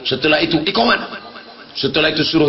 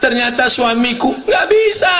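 high pleading daughter's voice; mock the whining daughter, pitched high; 8 semitones higher than usual. Daughter whining to her mother, voiced high.

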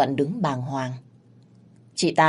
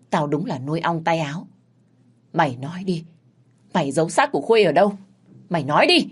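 grind the words out, then demand; mild growled anger; faster than usual. Acted. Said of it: "gằn giọng".

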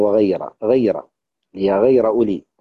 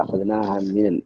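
ordinary talk

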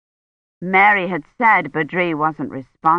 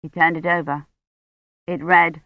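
plain reading voice

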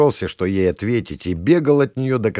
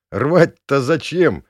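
laughing; 6 semitones higher, 5 dB louder, much slower than usual. Acted. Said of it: "засмеялся я".

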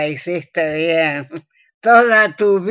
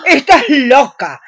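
shocked outburst; 5 semitones higher, 6 dB louder than usual. Acted. Shocked by confession.

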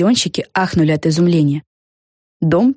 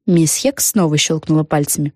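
ordinary delivery

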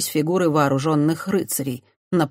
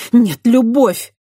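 much higher and louder, slow, fierce; hot-tempered retort; 8 semitones higher, 9 dB louder, slower than usual. A narrator's reading. Christiana hotly contradicting the priest, loud. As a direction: fire it back hotly. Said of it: "запальчиво возразила Христиана".

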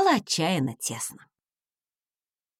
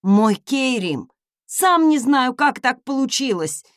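envoy crying out to his lord; exclaiming; 3 semitones higher, 4 dB louder than usual. Acted. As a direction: plead in a flustered rush. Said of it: "воскликнул Ашер".

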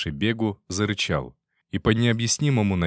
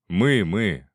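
with humour; 3 dB louder than usual. Acted. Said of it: "с юморком произнёс".

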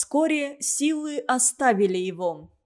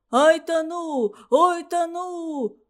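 high, slow drowning cries; panicked wail; 6 semitones higher, slower than usual. A narrator's reading. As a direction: cry out as if going under. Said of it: "хрипел толстяк".

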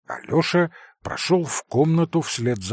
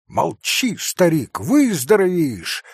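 louder, higher gruff cry; mock-angry shout; 5 semitones higher, 4 dB louder than usual. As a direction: scold him to hide tears. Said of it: "точно осердившись, крикнул вдруг Красоткин".

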